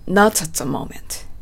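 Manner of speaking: "Not at" linked like "no-tsat", slowly; slow model phrase, hard T joining "Not at"; linked, strong T. Shown as a demonstration. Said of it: "not atと発音しましょ". (「Not at」のTを強くつなげて、ゆっくり)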